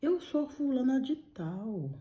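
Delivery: echoing the spirit's words in shock; stunned disbelief. Retold or imitated. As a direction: repeat the name, unable to believe it. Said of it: "Como assim?".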